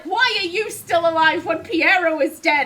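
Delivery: loud, high-pitched protest; indignant outburst. Real, not acted. Player asking why he is alive when Piero is dead, indignant. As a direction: demand it indignantly, voice jumping up. Player mock-challenges a game character.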